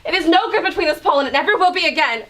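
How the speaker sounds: half-laughing, high and upset; hysterical. Acted. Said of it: "you're hysterical".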